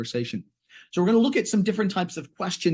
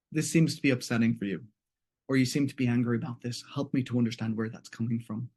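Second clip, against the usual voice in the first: lower, gentle, calm inquiry; calm and warm; 5 semitones lower, 3 dB quieter than usual. Shown as a demonstration. Listener calming an angry client, warm and calm. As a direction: soothe an upset person with a calm voice. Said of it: "it's warmer, it's calmer".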